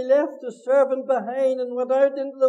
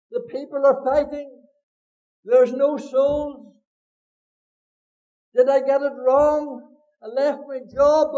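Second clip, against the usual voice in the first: loud, slow plea from a weary pastor; lamenting prayer; 4 dB louder than usual. Retold or imitated. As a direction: cry out to God in despair, dragging the words.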